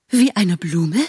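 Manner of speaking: affronted question, Wie eine Blume with a rise; a vain butterfly offended by the comparison; indignant echo. Acted. (gekränkt fragend: Wie eine Blume?)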